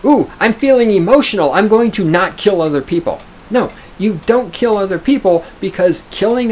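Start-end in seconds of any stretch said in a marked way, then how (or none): 0.0-3.2 mock emotional. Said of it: "There's no".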